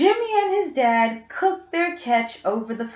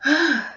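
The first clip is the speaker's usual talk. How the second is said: tired sigh; 4 semitones higher than usual. Acted.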